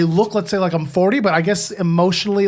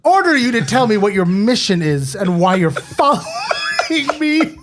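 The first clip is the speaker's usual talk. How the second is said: mock-commanding order through laughter; commanding officer. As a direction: play the officer giving an order, half laughing. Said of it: "as the commanding officer".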